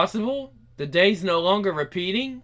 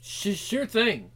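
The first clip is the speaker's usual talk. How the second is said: stuttering; 4 semitones higher, slower than usual. Acted. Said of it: "are you stuttering?".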